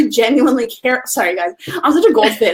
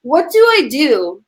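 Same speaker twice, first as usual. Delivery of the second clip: mock challenge; 2 semitones higher than usual. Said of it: "I literally just want to respond".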